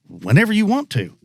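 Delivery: high, lilting mock reply; retold guide's reply. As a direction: swing the pitch way up as you answer the kid. Guide answers kid in retold story.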